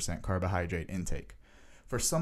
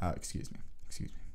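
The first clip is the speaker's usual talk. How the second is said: recovering from laughter; 3 semitones lower, 9 dB quieter, faster than usual. Real, not acted. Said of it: "I don't mean to laugh".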